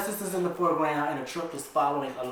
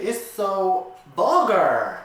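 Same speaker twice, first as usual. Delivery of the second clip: amused; 4 semitones higher, 7 dB louder, much slower than usual. Real, not acted. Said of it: "This is so funny reading this shit".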